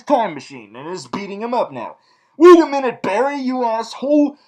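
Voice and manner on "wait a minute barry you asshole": loud, high burst of mock outrage; mock-outraged scolding. Reviewer scolding Barry for breaking a deal, mock outrage. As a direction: shout the hero down, indignant.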